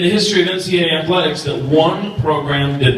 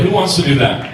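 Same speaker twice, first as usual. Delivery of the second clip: crowd call-out; 3 dB louder than usual. Real, not acted. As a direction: hype the crowd with a question. Calling out to the crowd.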